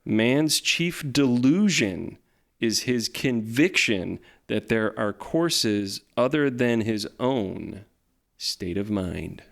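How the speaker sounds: slow, weighty quote reading; slow solemn reading. Acted. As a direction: read it slowly and gravely.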